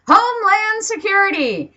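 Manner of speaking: loud topic announcement. Acted. Announcing next rant topic.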